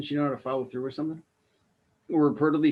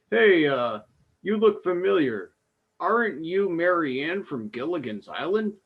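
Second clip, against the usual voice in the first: higher, louder cop recognizing her; 3 semitones higher, 4 dB louder than usual. Pretend. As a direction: play the cop who spots a star. Cop voiced in imagined scene.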